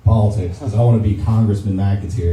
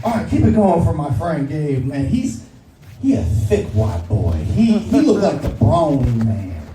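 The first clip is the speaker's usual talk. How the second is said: Ashima Franklin impression; 3 semitones higher than usual. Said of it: "she always goes like".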